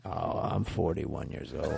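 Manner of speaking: low, soft and slow; low smooth flirt. Acted. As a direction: drop low and lean in.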